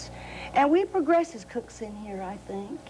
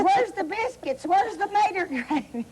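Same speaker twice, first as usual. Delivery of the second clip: put-on hollering child; 7 semitones higher than usual. Sister retells toddler Anita yelling at the hotel table, high demanding cry. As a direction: imitate the toddler yelling for her gravy.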